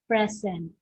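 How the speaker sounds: "present" with PRE stressed; stress on first syllable. Shown as a demonstration. Teacher giving students an example of a noun, first-syllable stress. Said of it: "stress in the first syllable".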